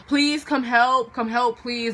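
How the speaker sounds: mimicking a stranger's drawn-out plea; slow the words into a mock plea for help; retold begging. Stranger begging the girls for help, imitated pleading. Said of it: "he kept on begging".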